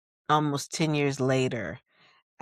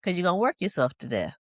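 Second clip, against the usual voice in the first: warning grandmother; 5 semitones higher, much faster than usual. Retold or imitated. Grandmother warning against overwork, imitated fast scolding. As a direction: rattle off her warning, pitched up. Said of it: "she said".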